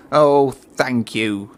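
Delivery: very slow, drawn-out relieved thanks; Cranky, slow thanks. Acted. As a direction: stretch it out as a grateful crane. Cranky voiced in story.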